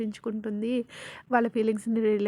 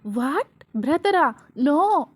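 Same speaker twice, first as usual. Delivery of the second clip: mild outraged exclamations, raised in protest; shocked yell; much slower than usual. Acted. Vasu reacting to her friend calling Rishi her brother, mildly yelled protest. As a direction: cry out in short, indignant disbelief. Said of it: "ఎందుకు అంత గట్టిగా అరుస్తున్నావు".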